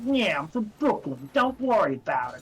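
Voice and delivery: a cartoon Brooklyn kid reassuring his friend; Brooklyn accent. Co-host quoting the dubbed Joey in a mock Brooklyn accent. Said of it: "they gave him a Brooklyn accent".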